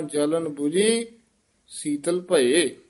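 ਬੁਝੀ said softly and lightly. Shown as a demonstration. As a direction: keep ਬੁਝੀ gentle, with no stress. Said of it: "ਬੁਝੀ ਪਦ ਪੋਲਾ ਹੀ ਉਚਾਰਨ". (ਬੁਝੀ ਪੋਲਾ ਬੋਲੋ)

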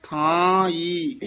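ਥਾਈ drawn out slowly, ending in a pure ee; slow ਥਾਈ, clean oral ee; no nasal ending. Shown as a demonstration. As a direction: stretch ਥਾਈ with no nasal on the last vowel. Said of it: "ਈ ਤੇ ਬਿੰਦੀ ਨਹੀਂ ਲਾਉਣੀ".

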